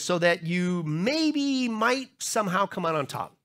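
slow, unsure mock reading; limp, doubtful parody of the verse; wishy-washy hedging. Shown as a demonstration. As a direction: hedge every word like you doubt it. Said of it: "No, he's very emphatic about it".

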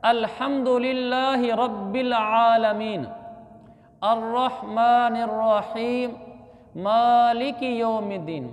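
slow, measured recitation of the sura; teaching recitation. Shown as a demonstration. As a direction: draw out long vowels, verse by verse. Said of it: "आगे सूरह फातिहा है". (धीमी, साफ़ क़ुरानी तिलावत)

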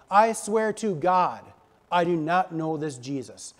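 emphatic, mildly acted denial; insistent vow, falling at each end; swearing an oath. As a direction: lean on each word of the oath. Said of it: "he swore to them".

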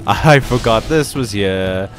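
laughing. Real, not acted. Laughs at own panic.

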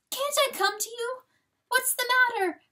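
very high, pleading little fawn; wailing. A narrator's reading. Fawn begging to come to Papa, high wail. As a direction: beg him in a high wail. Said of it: "wailed little Delacour".

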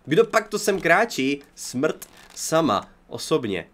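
slow, ominous herald of death; mock dramatic announcer. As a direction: draw it out like a grim announcer. Zombie approaching, mock dramatic.

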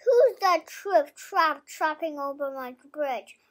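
a milder hammed-up troll challenge; child's mock troll roar. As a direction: call it out like a storybook troll. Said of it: "roared the troll".

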